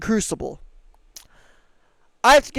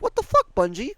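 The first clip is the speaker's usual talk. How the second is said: incredulous outburst; 3 semitones higher than usual. Real, not acted. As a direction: squeak up in disbelief at the developer. Gamer rants at developer.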